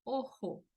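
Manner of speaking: "ojo" with the Spanish j, ending in a closed o; Spanish pronunciation. Shown as a demonstration. Teacher gives learners their own word, Spanish "ojo". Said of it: "ustedes hablan".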